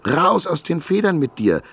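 high, loud full-throated yell; full-throated shout. A narrator's reading. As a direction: shout at the top of her lungs. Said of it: "rief sie aus voller Kehle".

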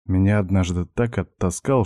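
ordinary delivery, nothing marked

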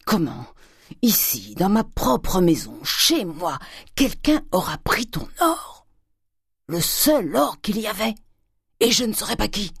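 indignant outburst climbing steadily in pitch; rising crescendo. A narrator's reading. Father learns someone took the gold, indignant voice climbing. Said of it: "qui fit graduellement retentir la maison".

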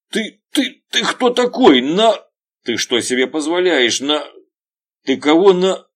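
high, loud enraged shouting; furious yell. Acted. Veryovkin screams at the detective, furious. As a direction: bellow at the cop in outrage.

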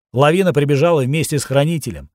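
usual speaking voice

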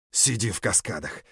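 ordinary delivery, nothing marked

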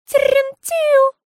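high, drawn-out whistled birdcall; birdcall whistle. A narrator's reading. Mama imitates a bird for her daughter, high whistle. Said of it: "засвистела, как птичка".

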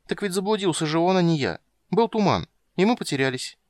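put-on a girl rattling off excuses; lively high young princess; little girl voice. A narrator's reading. Child Ciri voiced high.

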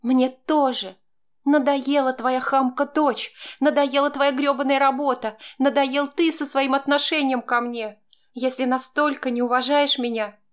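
hurt, indignant woman's tirade, voiced high; fed-up wife's outburst. A narrator's reading. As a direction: unload everything she's had enough of. Wife's long angry outburst.

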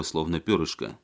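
ordinary delivery, nothing marked

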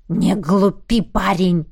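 чуть ниже, с лёгким рыком; пригрози сквозь зубы; прорычал. Acted. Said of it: "прорычал вурдалак". (лёгкий намёк на рык вурдалака)

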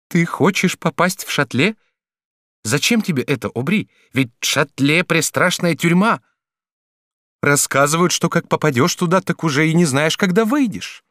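frightened for him; lightly voiced worried girl; alarmed girl. A narrator's reading. Gervaise alarmed by his plan.

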